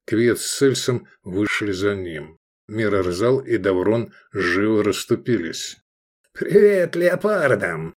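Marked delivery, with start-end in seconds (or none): 6.3-7.9 high, slow teasing farewell; mock the doomed man cheerfully; playful. A narrator's reading. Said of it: "игриво сказал Джаманиязов".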